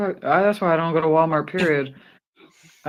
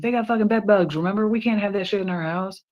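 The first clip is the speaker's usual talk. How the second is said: higher, fast exasperated reminder; exasperated scolding; 6 semitones higher, faster than usual. Retold or imitated. Wife warning husband about bed bugs, exasperated and fast. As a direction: scold him hurriedly. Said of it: "I'm like".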